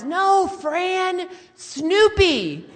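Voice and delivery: loud, high exasperated mock yell; yelling dad. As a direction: holler it at someone hard of hearing. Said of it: "And Dad yells".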